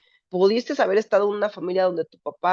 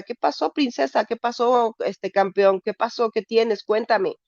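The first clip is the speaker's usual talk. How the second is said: tender father; 3 semitones higher, slower than usual. Retold or imitated. Father comforting daughter, voiced.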